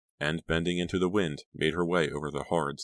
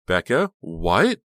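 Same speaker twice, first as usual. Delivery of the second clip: frightened; 2 semitones higher, 8 dB louder, much slower than usual. A narrator's reading. Honey frightened by the knife.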